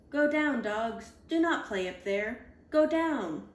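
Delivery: a reader shouting up at the playing dogs; calling out. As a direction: call them down off the roof. Telling dogs to get down.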